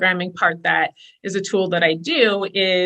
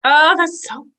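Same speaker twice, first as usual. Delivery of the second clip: higher, louder, slowed delight; real, drawn-out enthusiasm; 6 semitones higher, 4 dB louder, slower than usual. Real, not acted. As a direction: savour how good it sounds. Host reacts with delight.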